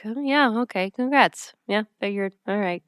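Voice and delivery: mock offhand, brushing it off; lightly imitated nonchalance; too nonchalant. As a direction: shrug it off as if it means nothing. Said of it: "Too nonchalant".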